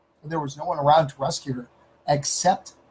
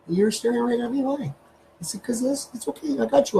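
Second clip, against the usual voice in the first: talking to the dog; 6 semitones higher than usual. Real, not acted. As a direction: coo at the dog, higher.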